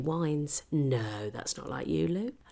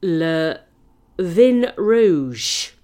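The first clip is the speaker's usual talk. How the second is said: mock French complaint; 8 dB louder, much slower than usual. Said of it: "and the wine was cool".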